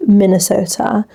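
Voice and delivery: "Minnesota" in a British accent, crisp t; British-style "Minnesota". Shown as a demonstration. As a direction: say "Minnesota" like a Brit. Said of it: "like, a British accent".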